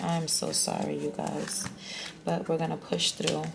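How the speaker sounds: nervous shaky voice. Real, not acted. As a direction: let the voice shake with nerves. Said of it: "Even if my voice is shaking and stuttering".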